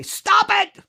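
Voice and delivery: high-pitched, emphatic command to stop; Jesus pleading at a high pitch; exasperated Jesus. Acted. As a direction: cry it out in separate bursts. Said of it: "Jesus would say".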